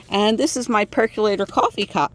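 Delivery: sharp whistling s sounds. Real, not acted. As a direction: let the s sounds whistle through. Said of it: "Sorry about the whistling, that's my thing".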